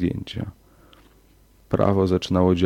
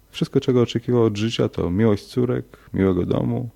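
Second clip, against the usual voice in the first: ordinary delivery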